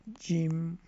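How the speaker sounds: جم pronounced crisply with a j; model word. Shown as a demonstration. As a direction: say جم as the example word. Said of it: "ٹھیک ہے؟".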